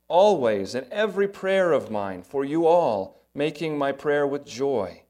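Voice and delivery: measured, heartfelt Bible reading; scripture reading. Acted. Pastor reading Philippians aloud to the church, earnest reading. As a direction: read the verses with feeling.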